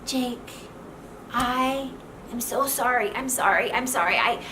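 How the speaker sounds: acted gushing, repeated apology; mock-emotional wife apologizing. Shown as a demonstration. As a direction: plead for forgiveness with hurried repeated sorries. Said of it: "It's really emotional and it's like".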